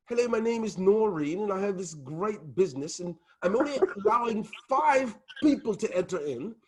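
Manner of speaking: hammed-up English accent, pitch swooping high; silly prim English sales pitch, Mary Poppins style; mock English accent. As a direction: put on an exaggerated English accent. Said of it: "All you people from the U K, your accents gives you".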